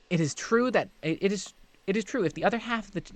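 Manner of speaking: high, quick, fawning sprite voice; a giddy small servant creature gushing about Master's things; eager little creature. Acted. Reezy the creature greets Hestia, high and eager. Reezy explains the riddle trick.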